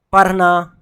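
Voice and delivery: पढ़ना said as "parna", loud; common wrong R. Shown as a demonstration. Teacher quoting how people mispronounce, plain R. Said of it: "रॉ लेके आ जाता है".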